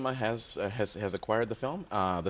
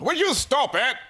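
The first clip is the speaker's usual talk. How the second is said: high voice; 13 semitones higher, 6 dB louder, slower than usual. Acted. Comic character voice.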